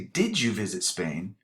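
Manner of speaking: slow, clear contrast sentence; measured demo pace; slow example. Shown as a demonstration. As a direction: model it slowly for students. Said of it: "Now, if I say".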